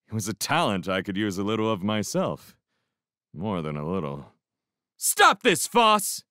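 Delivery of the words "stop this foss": high, loud pleading command; shout. A narrator's reading. Dell breaking up the men's fight, shouting. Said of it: "shouted Dell".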